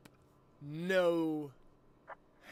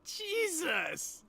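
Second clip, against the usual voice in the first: shocked; 8 dB louder than usual. Real, not acted. Reacting to friend eating sauce.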